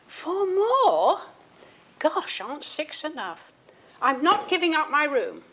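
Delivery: put-on high, loud complaint from an indignant boy; protesting child. One of the brothers protesting the news, high and loud. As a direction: squawk it like a child who won't share.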